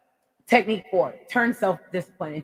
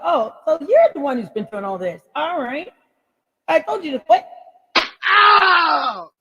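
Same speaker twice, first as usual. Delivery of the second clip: higher, louder fed-up scolding with yelps; mock telling-off; 9 semitones higher, 5 dB louder than usual. Vlogger telling off saboteurs in the comments, mock angry. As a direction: scold them and whoop.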